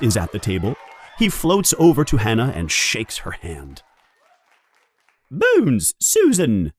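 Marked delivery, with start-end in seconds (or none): 5.3-6.7 higher, ringing call; teacher calling a pupil forward; yelled name. Acted. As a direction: call her up to the stool. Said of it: "yells Professor McGonagall".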